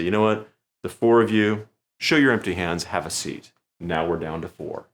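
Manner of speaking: a lightly voiced magician's stage command; confident showman. Shown as a demonstration. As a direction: performer dismissing four volunteers from the stage, confidently. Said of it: "That's how I do it".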